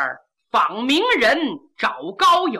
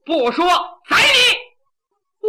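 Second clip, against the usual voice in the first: sharp shout, leaping much higher on 宰你; threatening shout; 5 semitones higher, 4 dB louder, much slower than usual. A narrator's reading. Bandit chief threatening the captive official, shouted threat. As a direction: bark the threat to kill.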